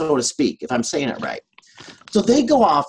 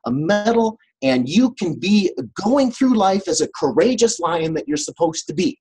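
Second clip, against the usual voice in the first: grand wizard proclamation; 4 semitones higher than usual. Retold or imitated. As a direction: play it like a lightly hammed-up official decree. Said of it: "the wizard's like".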